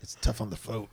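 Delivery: high raspy wrestler promo, building to a shout; Macho Man Randy Savage. Retold or imitated. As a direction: growl out a wild wrestling promo. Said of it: "Can you do the Macho Man, Randy Savage".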